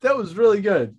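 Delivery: normal talking voice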